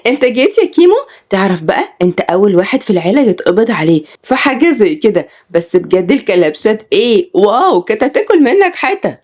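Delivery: high, mocking teen-girl voice; teasing little sister. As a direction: tease him lightly like a spoiled younger sister. Teen sister Laila teasing brother.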